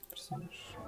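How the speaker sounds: soft unvoiced whisper. Real, not acted. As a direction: breathe the word out. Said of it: "whispered word".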